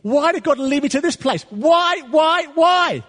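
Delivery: high, loud, whining complaint; a hammed-up wail of why; mock complaining. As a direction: play the self-pitying moaner. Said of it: "to moan or com".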